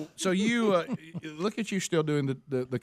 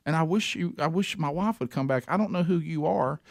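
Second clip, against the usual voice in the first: tender plea. Retold or imitated. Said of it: "I said".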